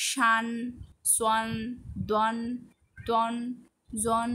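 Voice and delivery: each of শান, সোয়ান, দন sounded alone and firmly; separate, drawn-out syllables ending in জন; syllable drill. Shown as a demonstration. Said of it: "সবগুলোর উচ্চারণ একটু দেখে নিলাম".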